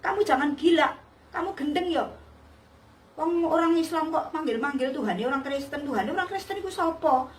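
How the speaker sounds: mildly indignant scolding, pitched slightly up; retold angry scolding. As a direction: imitate a maid telling someone off. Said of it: "dia ngamuk-ngamuk". (menirukan omelan marah)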